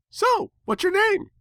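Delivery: excited pony asking a name; high bubbly pony voice. Acted. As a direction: play the hyper pink pony, sweet and bright. Pinkie Pie voiced by narrator.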